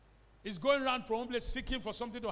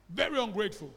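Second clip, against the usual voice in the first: very ungrateful said louder; a sharper, louder rebuke; emphatic repeat; 6 dB louder than usual. Shown as a demonstration. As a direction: repeat it with punch on very.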